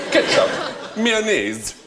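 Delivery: trying posh English on single words; posh English accent. Acted. Server testing a swapped accent, posh English. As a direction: sound out each word in upper-class English. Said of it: "What a strange accent".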